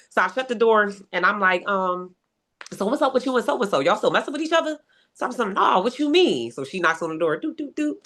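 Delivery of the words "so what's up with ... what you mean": high pointed questions; confronting. Retold or imitated. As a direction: press him for the truth.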